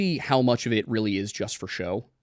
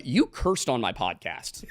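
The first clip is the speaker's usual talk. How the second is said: laughing tease; slower than usual. Retold or imitated. Teasing a guest about cursing.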